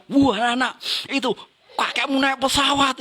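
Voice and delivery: put-on high-pitched exclamation to distract a child; acted excited distraction; excited parent. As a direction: point out a wonder to a little one. Parent distracts crying child skyward.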